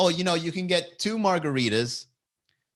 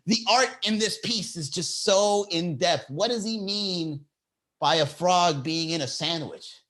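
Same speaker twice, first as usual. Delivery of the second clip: pompous art critic; 4 semitones higher than usual. Acted. Mock art critic musing.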